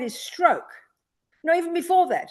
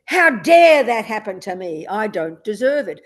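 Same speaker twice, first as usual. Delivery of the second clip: slow, louder outraged "How dare that happen to me"; indignant anger; 6 dB louder than usual. Pretend. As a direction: voice anger's self-pity, drawn out and loud. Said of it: "Anger says".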